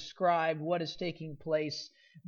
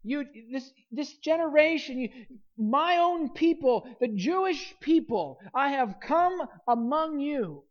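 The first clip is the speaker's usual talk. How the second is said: raised, higher pleading voice of Jesus; Jesus rebuking his people; 4 semitones higher than usual. Retold or imitated. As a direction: lift the pitch as if Jesus cries out to his own people. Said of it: "he is referring to".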